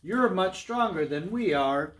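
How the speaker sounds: high-pitched worried goat voice; high storybook pleading; afraid little goats. Acted. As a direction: plead as the frightened little brothers. Frightened brothers plead.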